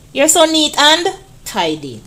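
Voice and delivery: lightly voiced proud mother; mommy praising. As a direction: tell the child they did well. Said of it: "your mommy said".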